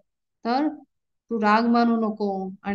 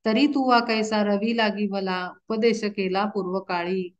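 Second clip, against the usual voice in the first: devotional verse recitation. Acted. Preacher reciting Arjuna's plea to Krishna, measured chant. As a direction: intone each line of the abhang like a kirtan.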